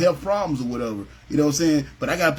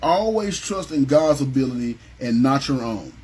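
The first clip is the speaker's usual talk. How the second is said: slow emphatic statement; 3 semitones lower than usual. Shown as a demonstration. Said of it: "So number thirteen is this".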